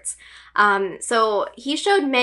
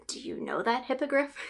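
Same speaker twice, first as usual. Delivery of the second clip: much softer, acted conspiratorial reply; hushed question; 2 semitones higher, 10 dB quieter than usual. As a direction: ask it under your breath, in character. Acted reply while hiding in script.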